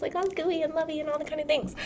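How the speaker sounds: a touch of syrupy lovey-dovey; gooey and lovey. Acted. Acting out being gooey and lovey.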